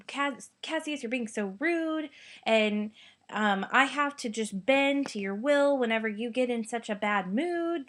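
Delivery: a mildly exasperated paraphrase; frustrated Brutus. Retold or imitated. A teacher voicing Brutus as mildly exasperated. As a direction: let a little irritation through. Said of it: "Brutus just gets very frustrated".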